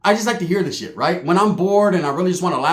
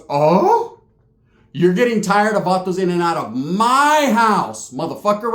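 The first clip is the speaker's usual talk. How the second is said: aunt voice. Retold or imitated. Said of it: "my tia goes".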